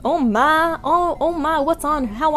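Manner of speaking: very high disbelieving question; real shock at the keys; astonished. Real, not acted. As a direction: gasp it out in disbelief. Shocked at the plane.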